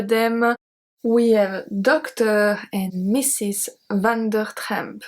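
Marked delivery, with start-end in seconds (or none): 1.8-5.0 slow, deliberate French accent; showy accent. Shown as a demonstration. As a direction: draw the name out in your best French accent. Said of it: "with my most beautiful accent".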